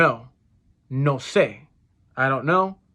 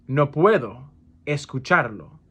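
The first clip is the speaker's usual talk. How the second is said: "No puedo", pause, "escucharlo"; broken up for learners. Shown as a demonstration. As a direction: split after "puedo" with a clear gap before "escucharlo". Teacher repeats phrase broken up.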